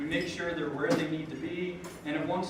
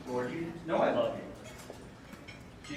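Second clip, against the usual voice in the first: slow hurt plea; 4 dB quieter, much slower than usual. Retold or imitated. Peter's second reply, more moved.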